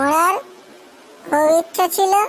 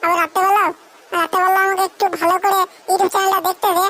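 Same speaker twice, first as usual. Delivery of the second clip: put-on scolding girlfriend; 2 semitones higher than usual. Girlfriend scolds boyfriend, higher voice.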